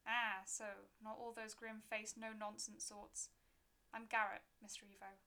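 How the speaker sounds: a hint of a rustic old gravedigger; folksy keeper with a crooked grin; gruff graveyard keeper.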